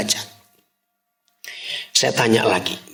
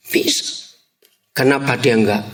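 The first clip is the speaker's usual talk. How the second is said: normal talking voice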